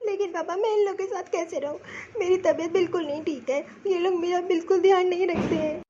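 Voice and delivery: subdued, soft, mildly tearful complaint. Acted. Sick daughter pleading with father, tearful. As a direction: plead softly with a touch of tears. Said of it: "अब तू रोना बंद कर".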